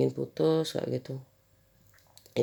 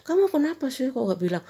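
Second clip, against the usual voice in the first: imitating husband; 11 semitones higher than usual. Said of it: "Ada itu aja Pak suami".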